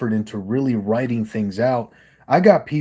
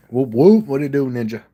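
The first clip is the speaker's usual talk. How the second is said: loud whooping holler, pitched up; juggalo call; 3 semitones higher, 5 dB louder than usual. Real, not acted. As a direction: shout it out to the crowd like a rally call. Juggalo call shouted at intro.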